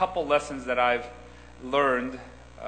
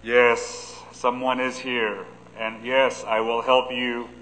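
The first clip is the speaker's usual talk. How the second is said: a lightly lowered voice from above; deep heavenly voice; 3 semitones lower, 4 dB louder, slower than usual. Retold or imitated. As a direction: speak calmly as God from heaven. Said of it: "a deep voice coming from heaven".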